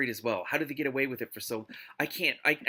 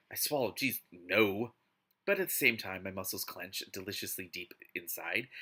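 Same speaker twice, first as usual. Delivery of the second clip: story narration. Acted. Reads the novel aloud.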